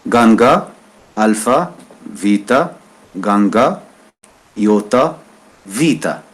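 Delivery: letter names one by one; name each letter slowly and clearly; teacher spelling a word aloud. Shown as a demonstration. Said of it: "je vais prononcer chaque lettre".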